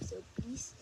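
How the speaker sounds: soft pleading quacky duck; Donald Duck voice. Pretend. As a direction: beg quietly in a cartoon duck voice. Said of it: "Donald Duck voice".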